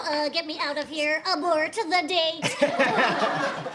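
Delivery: slow, laughing plea to escape; panicked abort. Retold or imitated. Wanting out of the blind date, slow and laughing. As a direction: drag it out, begging to flee. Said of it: "I'm all".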